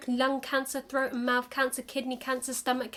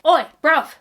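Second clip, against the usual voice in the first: loud, higher London greeting, Oi bruv; London accent; 6 semitones higher, 11 dB louder than usual. Pretend. Alien greeting you in a London accent. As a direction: hail a stranger like a cocky Londoner, London accent. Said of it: "they've adopted a London accent".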